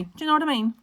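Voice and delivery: British catchphrase, pitched high; her own British accent. Shown as a demonstration. Showing viewers what they laugh at, British-accented catchphrase. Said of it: "laughing at me when I say".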